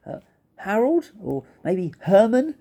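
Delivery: high, questioning little voice; tentative suggestion. A narrator's reading. Fluffy guesses the rhinoceros's name, high and tentative. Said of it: "said Fluffy".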